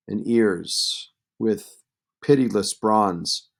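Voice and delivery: lightly voiced sneering lord, rising in scorn; mocking threat. Antinous taunts and threatens Iris.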